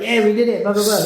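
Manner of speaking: high, giddy celebration; high-five the whole corridor; excited cheer. Retold or imitated. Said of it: "being like".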